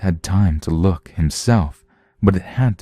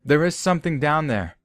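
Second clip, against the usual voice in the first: nervously; 10 semitones higher, 5 dB quieter than usual. Acted. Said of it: "one of the men said nervously".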